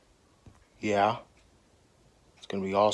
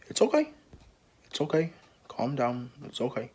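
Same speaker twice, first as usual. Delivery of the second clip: soothing; 3 semitones higher, 6 dB quieter than usual. Acted. Soothing an angry character.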